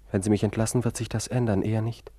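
loud, bitter retort; angry. Acted. Patient arguing with his doctor, loud and bitter. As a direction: throw it back at him.

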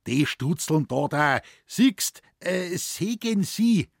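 high, slow halting Bavarian; struggling forester. A narrator's reading. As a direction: point and stammer it out. Moosbichler pointing, explaining.

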